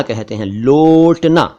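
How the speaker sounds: लोटना slowly with a closed o; say lotna. Shown as a demonstration. Teacher spelling out the word for viewers, slow closed o in लोटना. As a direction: draw out लोटना with a pure o sound. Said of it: "इसको बोलते वक्त".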